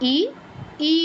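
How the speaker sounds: ই held long; long vowel ঈ. Shown as a demonstration. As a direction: draw ই out. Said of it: "দীর্ঘ ই হচ্ছে ই".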